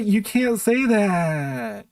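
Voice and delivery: slow, stretched scandalized whine; drawn-out mock outrage. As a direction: drag it out like a pearl-clutcher. Mocking offended critics.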